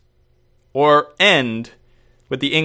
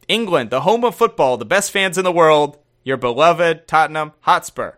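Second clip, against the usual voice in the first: mock grand announcement; 4 semitones higher than usual. Teasing Joe with grand praise.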